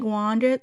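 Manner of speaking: WANDERED said as "wandit"; imitated pronunciation. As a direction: say WANDERED with no R, ending in a short "-it". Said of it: "she's saying, like".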